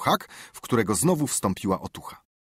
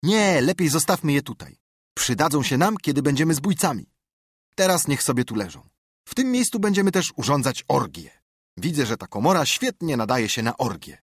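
dream up robber plans grandly; boastful boy; 5 semitones higher than usual. Acted. Tomek plans robber life.

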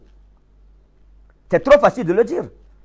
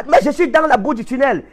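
higher-pitched objection to God; urgent, raised-pitch appeal; acted desperate protest; 5 semitones higher than usual. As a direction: plead that you are still stuck. Believer protesting to God again.

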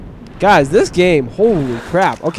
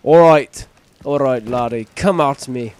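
lightly mocked Irish lilt; attempted Irish accent; 4 semitones lower than usual. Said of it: "Don't ever attempt an Irish accent".

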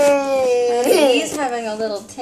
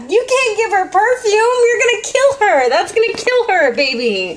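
upset scolding; 5 semitones higher than usual. Real, not acted. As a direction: tell him off, still alarmed. Scolding child over perfume.

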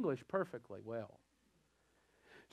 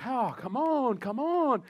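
much higher and louder, revival urging; hammed-up preacher hype; 8 semitones higher, 4 dB louder, slower than usual. Preacher urging the congregation on, mock excited. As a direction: egg the crowd on, over the top. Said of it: "it's like".

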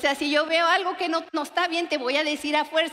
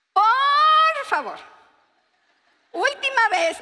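pleading wife; 9 semitones higher, 5 dB louder, slower than usual. Retold or imitated. Wife begging husband about bread.

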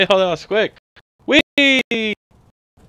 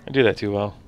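breathy hiss through teeth; raspy ghoul, like a throat infection; 6 semitones lower, 10 dB quieter, faster than usual. Acted. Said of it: "It's not that hard to actually do a ghoul voice".

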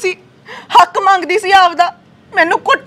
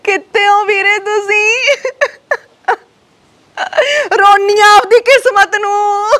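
crying on the phone. Acted. Sister crying to her brother on the phone about her beating. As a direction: cry out the story to him, dragging the words.

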